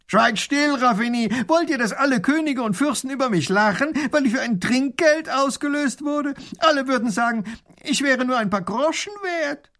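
high, loud haughty command; imperious grand duke. A narrator's reading. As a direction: silence the baron with wounded pride. (herrischer Großherzog)

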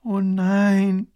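a mild groan of despair. A narrator's reading. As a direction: groan it out, fed up. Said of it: "stöhnt die Prinzessin". (leicht gestöhntes Oh nein)

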